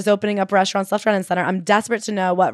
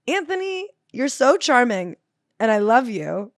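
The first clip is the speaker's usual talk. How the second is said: mock gushing plea; 2 semitones higher than usual. Host speaking to the author, lightly gushing. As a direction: swoon at him, then press him gently. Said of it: "And I was just like".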